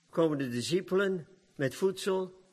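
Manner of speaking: normal talking voice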